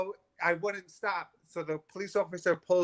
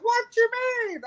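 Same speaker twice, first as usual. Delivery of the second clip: very high, louder mock Arabic accent; 4 dB louder than usual. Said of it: "he had this heavy Arabic accent".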